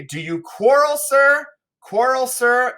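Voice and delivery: high, loud taunting challenge; picking a fight with a sneer; provoking. Acted. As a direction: egg him on. Servant provoking a quarrel.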